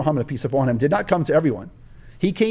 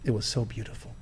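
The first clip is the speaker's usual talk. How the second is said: mock-sentimental, quieter and lower; sarcastic; 4 semitones lower, 5 dB quieter than usual. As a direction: gush with heavy sarcasm. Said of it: "I say it with sarcasm".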